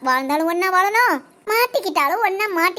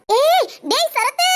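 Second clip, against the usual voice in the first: slow, high shouted call; staged shout; 7 semitones higher, much slower than usual. Acted. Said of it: "performance பண்ண விடுங்கடா". (மேடை நடிப்புக் கூச்சல்)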